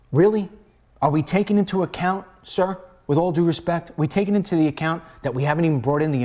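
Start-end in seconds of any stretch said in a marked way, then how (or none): 0.1-0.5 louder sarcastic disbelief. Real, not acted.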